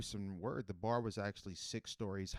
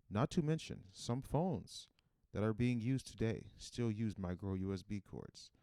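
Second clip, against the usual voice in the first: measured podcast sponsor read, building in emphasis; mock ad read; 4 dB louder than usual. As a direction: pitch the product in a deliberate announcer cadence. Reads a mock ad.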